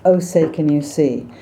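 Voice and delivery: "Oh" said back in the throat, lips relaxed; throaty American oh. Shown as a demonstration. Coach demonstrating the American oh. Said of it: "speak from a little further back in the throat".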